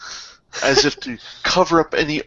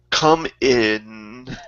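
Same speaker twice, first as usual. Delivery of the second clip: mildly put-upon manservant; sighing reluctance. Acted. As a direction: let them in with understated reluctance. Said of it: "sighs loudly and says".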